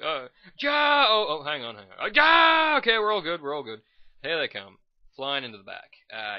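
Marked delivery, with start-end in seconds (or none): 0.0-3.8 much higher, loud comic yelling; panicked Dutch soldier. Pretend. Dutch soldier caught in a break, mock panicked yell. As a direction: squawk in mock panic then settle.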